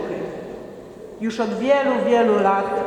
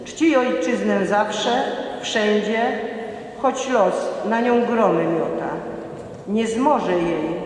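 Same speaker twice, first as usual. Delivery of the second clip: poem recitation. Acted. Recites a patriotic children's poem.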